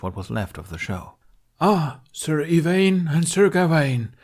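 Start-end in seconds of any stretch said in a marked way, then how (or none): 1.6-4.1 loud, high, slow royal shout; shouting in character. A narrator's reading. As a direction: shout over the laughter as king. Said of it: "she shouted over Jack's laughter".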